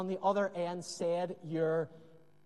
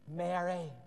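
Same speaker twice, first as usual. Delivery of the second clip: tender naming; 4 semitones lower, 4 dB quieter than usual. Retold or imitated. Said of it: "The way he held her name in his mouth".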